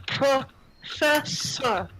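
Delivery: slow, broken into separate syllables; halting foreign word. Acted. Girl points at the professor and names her, slowly, syllable by syllable. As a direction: sound out PROFESSOR piece by piece, drawn out. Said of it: "she points to you, Professor and goes".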